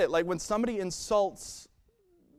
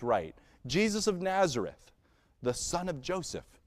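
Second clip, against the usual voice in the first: scripture reading. Acted. Reads scripture aloud.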